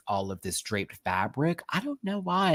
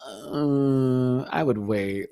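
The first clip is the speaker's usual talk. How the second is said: voicing her reaction; much slower than usual. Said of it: "That's me".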